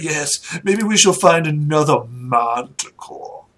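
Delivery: slightly drawn-out lordly musing; boastful noble husband. Acted. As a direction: play a lord fancying another hunt. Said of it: "He's like".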